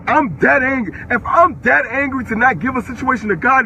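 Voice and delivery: real anger, firmly stressed; so angry. Real, not acted. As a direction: insist on how angry you are. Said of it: "I'm so angry right now".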